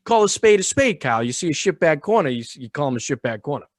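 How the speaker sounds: a mock Boston accent calling a spade a spade; fake Boston accent. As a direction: play up a Boston street accent. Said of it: "I like your fake Boston accent".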